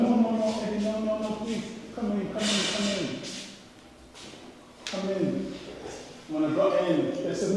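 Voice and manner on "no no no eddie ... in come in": soft, hurried-in reassurance; quiet imitation of apologetic hosts; hushed welcome. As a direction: gently usher a visitor inside. Hosts voiced welcoming him in.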